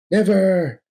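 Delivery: Bruce's loudest refusal; bigger shout. Acted. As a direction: scream it out at full force. Defiant refusal escalates.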